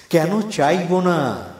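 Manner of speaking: loud, high, very drawn-out declamation; ringing poem refrain. Acted. Poet's climactic question to the listeners, ringing out loud. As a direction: swell the refrain into a loud, slow cry.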